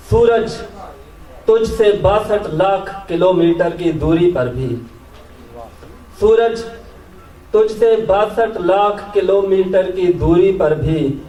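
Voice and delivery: measured Urdu nazm recital, pauses between phrases; poetry recitation. Acted. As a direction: lift each opening, let the line fall away. Recites own poem to audience.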